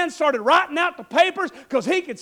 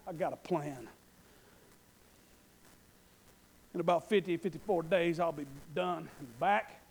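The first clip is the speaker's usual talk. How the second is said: much lower, softer steady request; calm Nehemiah; 6 semitones lower, 6 dB quieter than usual. Acted. Nehemiah quietly asks the king for letters, low and soft. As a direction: lay out the plan quietly. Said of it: "Nehemiah speaks to the king".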